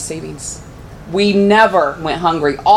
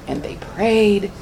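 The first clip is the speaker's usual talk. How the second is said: slowed repetition; 3 semitones higher, 4 dB quieter, much slower than usual. Shown as a demonstration. Repeated, slowing prayer line.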